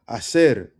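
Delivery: Hacer said ah-SEHR; silent H. Shown as a demonstration. Teacher introducing the word, "Hacer" with silent H. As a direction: start "Hacer" on a loud open A. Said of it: "H is silent".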